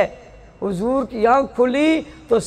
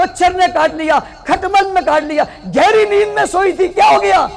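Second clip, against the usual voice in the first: mock complaining woman; 8 semitones higher than usual. Woman complaining bugs woke her.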